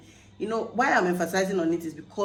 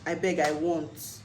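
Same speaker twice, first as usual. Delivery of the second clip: Nigerian pidgin. Shown as a demonstration. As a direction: ask in easy pidgin. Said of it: "let me use the pidgin English".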